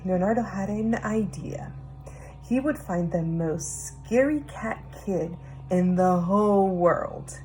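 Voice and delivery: hushed, secretive narration; conspiratorial story whisper; whispered storytelling. A narrator's reading.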